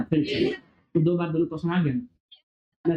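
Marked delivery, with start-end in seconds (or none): 0.0-0.5 surprised exclamation. Real, not acted. Teacher recalls the surprise option.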